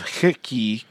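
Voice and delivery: "Hickey" as a vowelless reading of hockey; vowels dropped. Shown as a demonstration. Co-host teasing a misspelt site name, "Hickey" squashed short. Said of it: "No vowels in the hockey".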